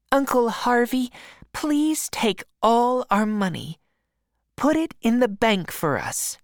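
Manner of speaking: put-on high, eager young girl's voice; Mary Jane welcoming her uncles in a high girl's voice. A narrator's reading. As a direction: lift way up and sound glad to meet them.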